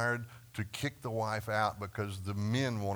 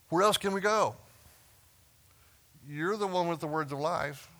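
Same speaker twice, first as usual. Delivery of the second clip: Peter's earnest answer; 6 semitones higher, 3 dB louder than usual. Retold or imitated. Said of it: "that's not what he said".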